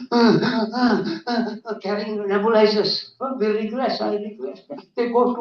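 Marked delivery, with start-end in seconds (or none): 0.1-1.8 mock laboured gasps; imitated asthma wheeze. Speaker showing how asthmatic doctors breathe, imitated wheezing.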